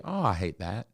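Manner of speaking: light, offhand "Oh, I hate that"; dismissive sympathy. Shown as a demonstration. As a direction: brush it off casually. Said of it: "here's what I would normally do".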